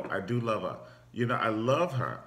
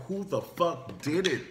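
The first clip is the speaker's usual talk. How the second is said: mock outrage; 7 semitones higher than usual. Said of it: "you be like".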